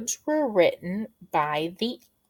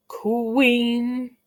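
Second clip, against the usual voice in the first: QUEEN stretched out, raised in pitch; drawn-out word; 4 semitones higher than usual. Shown as a demonstration. Teacher presenting a word to children, QUEEN drawn out. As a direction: hold QUEEN long and high.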